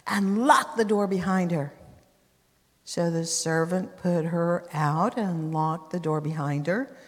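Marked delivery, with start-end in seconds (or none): 0.1-1.7 shouted order. Acted. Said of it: "He shouted for his servants".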